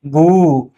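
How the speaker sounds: long drawn-out "गू". Shown as a demonstration. Teacher showing the long ū matra, "गू" held long. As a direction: hold the vowel in "गू". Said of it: "बड़ा ऊ ... थोड़ा देर तक".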